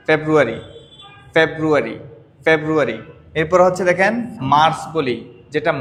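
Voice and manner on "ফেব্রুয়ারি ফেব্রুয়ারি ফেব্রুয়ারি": ফেব্রুয়ারি said clearly as "februari"; model pronunciation. Shown as a demonstration. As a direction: repeat ফেব্রুয়ারি as a model for students. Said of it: "ফেব্রুয়ারির মতোই বলি".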